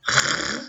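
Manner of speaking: R sounded alone as a long French throat sound; son isolé. Shown as a demonstration. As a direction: hold the bare sound of R, no letter name. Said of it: "je rajoute le petit son". (R prononcé seul, tenu, comme un son)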